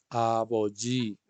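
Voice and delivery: aboji ibnika spelled out slowly, syllable by syllable; slow teacher demo of aboji ibnika; slow model phrase. Shown as a demonstration. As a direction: say it slowly for the class to repeat.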